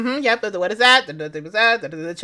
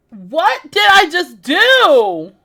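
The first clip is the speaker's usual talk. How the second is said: slow stunned disbelief; 4 semitones higher, 6 dB louder, much slower than usual. Real, not acted.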